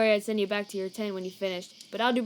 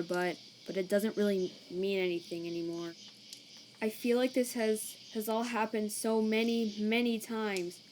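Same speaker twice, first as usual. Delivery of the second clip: weary despair; 3 dB quieter than usual. Acted. Sans despairs, close to breaking down.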